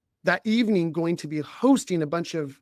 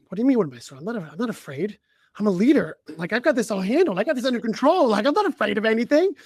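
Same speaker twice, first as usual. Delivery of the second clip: rising higher and louder in indignant denial; defensive protest; 5 semitones higher, 5 dB louder, faster than usual. Retold or imitated. Leader retorting to his own inner voice, indignant and louder. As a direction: insist you are not afraid, pushing up in pitch.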